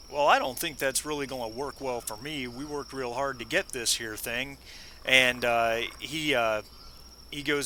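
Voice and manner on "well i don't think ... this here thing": lightly put-on Texan accent; a hint of a thick Texan cowboy accent. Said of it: "in his thick Western a-, or thick, thick Texan accent".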